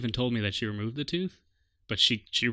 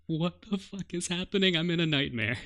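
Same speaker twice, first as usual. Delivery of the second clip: retold panic; 7 semitones higher, 3 dB louder than usual. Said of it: "I was like".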